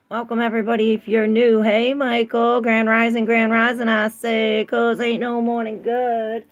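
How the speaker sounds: bright welcome. Real, not acted. Welcoming new viewers.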